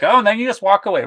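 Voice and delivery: high, fast mock jab; mocking accusation. Host retelling Demi scolding Whitney, as a high, quick mock jab.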